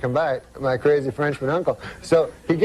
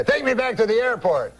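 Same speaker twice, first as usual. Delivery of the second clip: put-on higher-pitched comic French-Canadian accent; Jean-Luc's French-Canadian accent; 6 semitones higher than usual. Uncle answers the cab driver, higher French-Canadian accent. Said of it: "That's how he talks".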